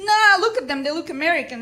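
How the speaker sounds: loud, high scoffing retort; imitated soldier brushing off a lie; dismissive drunk soldier. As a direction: scoff loudly as a doubting soldier.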